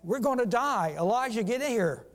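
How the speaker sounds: a servant crying out in fear of the army; frightened cry. Retold or imitated. Servant waking to an army, crying out to Elijah in fear. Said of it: "And he cried".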